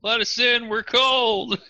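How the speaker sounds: loud, high holler at the gate; screaming. Acted. Osbert hollers to those inside the castle, screaming loudly. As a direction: yell to be let in. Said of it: "Osbert starts screaming".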